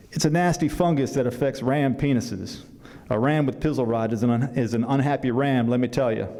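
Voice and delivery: put-on folksy southern country accent. Grandfather explaining the fungus to Kevin, in a southern accent. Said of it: "apologize in advance for my southern accent".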